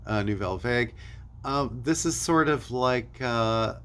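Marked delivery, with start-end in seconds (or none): 0.2-0.9 "Vague" pronounced "vehg", not "vahg"; "Vague" rhymes with "egg". Shown as a demonstration. Record reviewer offering one pronunciation of a band name, "Vague" as "vayg". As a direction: say "Vague" like "vayg", English short-to-long A. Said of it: "depending on how you pronounce it".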